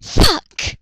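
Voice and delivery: sharp high yelled curse; exasperated curse. Real, not acted. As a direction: blurt it out, fed up.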